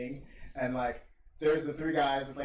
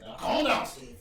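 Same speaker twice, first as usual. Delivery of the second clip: mock boss soothing; 10 semitones higher, 7 dB louder than usual. Vince soothing Austin.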